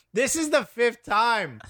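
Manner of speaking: playful put-on exasperation; exasperated assistant. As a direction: voice a fed-up assistant, drawing it out. Assistant fed up with boss.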